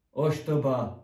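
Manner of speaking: loud scolding rebuke; a teacher snapping at a pupil; scolding snap. Acted. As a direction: put him down sharply. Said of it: "dorongolta le doktor Reaper".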